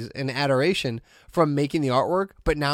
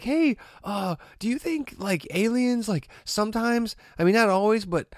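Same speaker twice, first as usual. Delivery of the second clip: put-on rambling kid; 5 semitones higher than usual. Imitating rambling son.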